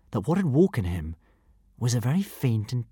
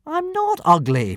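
much higher, slow hurt protest; indignant protest; 4 dB louder, slower than usual. Acted. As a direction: protest like an offended boy. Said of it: "protested Hiccup".

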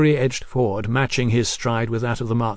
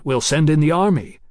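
higher, louder mild protest; 4 semitones higher, 5 dB louder than usual. A narrator's reading. Mallory doubting the Marquis's plan, mildly protesting. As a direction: object with a push on "army". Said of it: "Mallory protested".

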